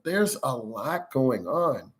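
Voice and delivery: slow, strained and tense; a driver with too much going on; showing strain in the voice. Shown as a demonstration. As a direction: let the pressure show as you say it. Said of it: "You can tell by my voice".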